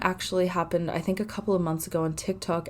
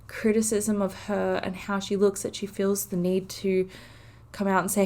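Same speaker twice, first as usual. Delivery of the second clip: holding back tears; 3 semitones higher than usual. Real, not acted. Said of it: "this is me trying to not cry".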